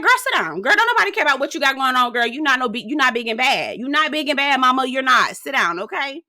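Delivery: high, sassy mock of Preston telling her off; imitating Preston. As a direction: put her in her place, sassy. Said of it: "Preston was like".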